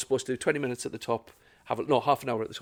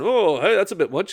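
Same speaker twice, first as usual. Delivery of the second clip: imitating heckling kid; 7 semitones higher, 7 dB louder than usual.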